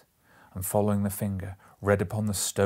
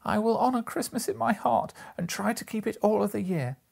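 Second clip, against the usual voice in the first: much higher, louder promise; fervent vow; 13 semitones higher, 4 dB louder than usual. A narrator's reading. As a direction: swear it with fervour. Scrooge's solemn vow.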